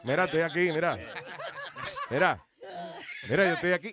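loud, laughing call for attention. Retold or imitated. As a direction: shout to be noticed. Voicing guy ignored, calling out.

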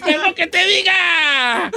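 slow, half-laughing, half-crying; mock-tearful laughing sermon; laughing mock plea. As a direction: plead through laughter, hammed up.

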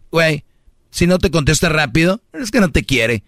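mocking the girlfriends. Mocking immature friends advising a girl: high gossipy voice. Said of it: "van a decir".

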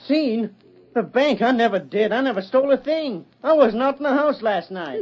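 desperate denial. Acted. Cole pleads with the sheriff he never stole, frantic and high. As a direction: protest your innocence with rising panic. Cole accused of robbing bank.

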